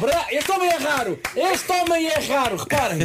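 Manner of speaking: high, slow, amazed cry; excited shout. Real, not acted. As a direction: shout out in delight. Marvels at the sneeze.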